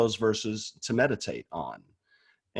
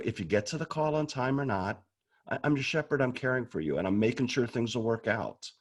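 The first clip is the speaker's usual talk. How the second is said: God's gentle reply. Retold or imitated. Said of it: "God starts saying".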